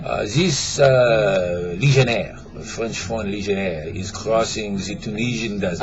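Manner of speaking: put-on French accent. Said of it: "start over with an accent".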